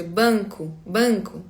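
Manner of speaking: "Банку" with a slightly nasal n before the k; Portuguese "Банку", nasalised first syllable. Shown as a demonstration. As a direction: let the N in "Банку" hum lightly through the nose. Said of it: "такий носовий Н трішки".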